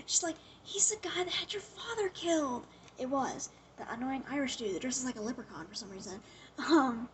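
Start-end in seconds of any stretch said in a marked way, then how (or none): 0.6-2.7 hushed, secretive whisper; whispered reveal. Retold or imitated. Electra whispers the killer's identity to Matt, hushed. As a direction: breathe the secret like a confession.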